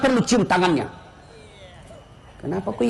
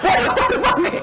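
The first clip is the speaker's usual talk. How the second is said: dismay; 10 semitones higher than usual. Retold or imitated. Driver finds ustaz missing.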